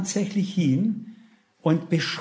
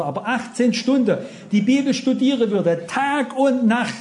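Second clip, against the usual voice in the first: fervent preaching; 3 semitones higher than usual. Real, not acted. Preacher marvelling to listeners at the inspired book, fervent. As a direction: press every phrase on the congregation with fervour. Preaches with raised, stretched emphasis.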